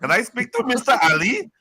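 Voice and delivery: formal receptionist phone voice; polite caller asking for someone; doctor on the phone. Retold or imitated. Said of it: "my G P is gonna be like".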